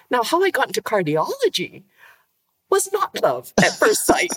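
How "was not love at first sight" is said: laughing through the words, pitch jumping up; amused laugh breaking into the line. Real, not acted. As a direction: giggle as you admit it. Amused admission, laugh heard.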